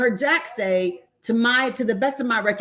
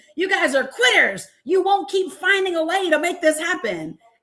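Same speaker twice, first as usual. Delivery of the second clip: mock, high-pitched screaming tirade; 7 semitones higher than usual. Retelling what Mike Flynn screamed at others: imitating someone screaming. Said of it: "is screaming".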